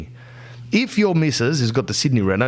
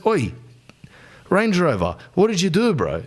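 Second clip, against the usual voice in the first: mild mock anger; 4 semitones higher than usual. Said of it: "she goes".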